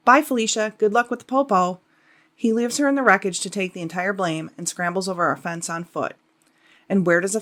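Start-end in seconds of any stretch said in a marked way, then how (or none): 0.1-1.8 sassy goodbye. Pretend. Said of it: "he looks at his female passenger and basically says".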